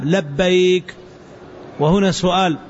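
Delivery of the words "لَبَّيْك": لبيك with an "a" after the l; fatha on lam. Shown as a demonstration. Teacher models the word for students, لبيك starting with "la". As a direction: say لبيك as "labbayk", opening on "la". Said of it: "لبيك بفتح اللام".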